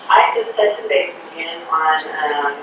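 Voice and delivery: phone speaker. Real, not acted. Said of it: "Is it okay if I put you on speakerphone?".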